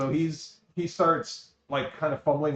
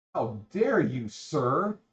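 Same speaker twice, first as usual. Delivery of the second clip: very slow, drawn-out, offended and indignant delivery. Voicing a nimble character who dodges a grab and looks offended: indignant NPC retort. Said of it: "she kinda looks at you like".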